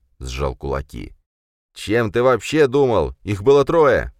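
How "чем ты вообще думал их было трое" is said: loud, raised scolding shout; angry yell. A narrator's reading. Khranka yells at Jurgen over the fight, loud. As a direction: yell it at him.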